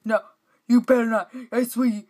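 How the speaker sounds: loud, high warning; tense shout. Real, not acted. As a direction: yell at the screen. Tense moment in game.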